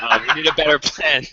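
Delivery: laughing through the line. Real, not acted. Host breaking after a flubbed pilot, laughing. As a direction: giggle out the admission.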